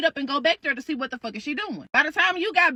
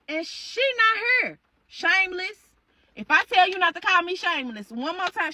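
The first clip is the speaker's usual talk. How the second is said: voicing the mother; 5 semitones higher than usual. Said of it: "She was like".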